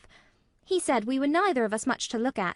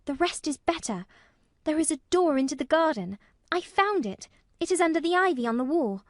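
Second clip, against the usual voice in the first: put-on high, louder, excited little girl; solemn excitement; 8 semitones higher, 5 dB louder than usual. A narrator's reading. Mary revealing the garden door to Colin, solemn excitement. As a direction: reveal a great secret earnestly. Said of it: "almost pale with solemn excitement".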